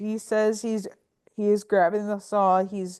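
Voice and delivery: plain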